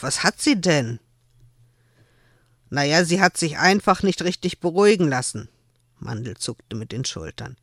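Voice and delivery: lebhaft vorgelesene Erzählung, die Figuren gespielt; erzählt die Szene wie beim Vorlesen; Romanlesung. Acted. Autorin liest aus ihrem Roman. (Autorin liest den Zuhörern ihr Buch vor)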